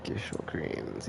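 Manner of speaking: slow, soft Gysahl as GISH-ul; trying out pronunciation. Shown as a demonstration. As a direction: sound out Gysahl quietly, with a SH. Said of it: "I'm pretty sure I pronounced it".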